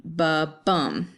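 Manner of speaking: "ba" light, "bum" stressed; a heartbeat beat, "ba" unstressed and "bum" stressed; iambic ba-bum. Shown as a demonstration. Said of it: "but you'll go".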